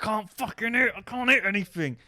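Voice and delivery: high, loud mock panic; retold frustrated yell. Losing player complaining to partner mid-fight, frantic high yell. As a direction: wail in helpless frustration.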